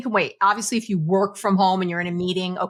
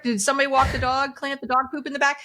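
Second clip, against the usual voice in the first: higher, fast barrage of questions; frazzled rush; 5 semitones higher, faster than usual. Retold or imitated. Mother coming home firing task questions, rushed. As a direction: rattle off chores anxiously. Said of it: "we come home and we're like".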